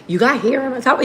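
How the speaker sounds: lightly imitated pestering kid; a hint of an annoying child; annoying little kid. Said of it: "annoying ass little kids".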